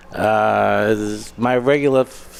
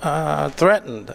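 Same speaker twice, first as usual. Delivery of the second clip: slow doctor question; 6 semitones higher, slower than usual. Retold or imitated. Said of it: "she says".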